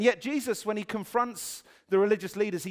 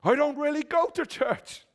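imitating the other man; 10 semitones higher, 4 dB louder than usual. Joke punchline voices.

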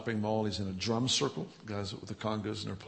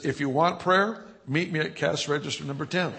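intercom announcement; 4 semitones higher, 5 dB louder than usual. Retold or imitated. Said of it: "He takes the microphone back".

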